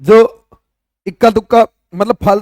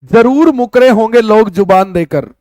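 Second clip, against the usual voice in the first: reading a couplet aloud. Shown as a demonstration. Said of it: "देखो क्या लिखता है लेखक".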